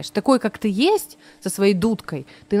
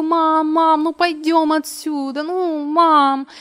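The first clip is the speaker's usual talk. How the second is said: put-on whiny child; 7 semitones higher, slower than usual. Child whining to mother.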